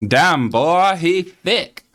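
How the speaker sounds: high, loud hammed-up hype-man exclamation; mock hype. Streamer teasing his friend, mock hyped exclaim. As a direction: hype it up like a cartoon bro. Joking about a friend's name.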